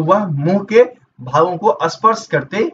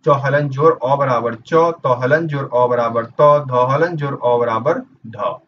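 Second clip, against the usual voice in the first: slow teaching recital; 3 semitones lower than usual. Shown as a demonstration. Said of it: "देख लीजिए, ये समझा भी दिया गया है".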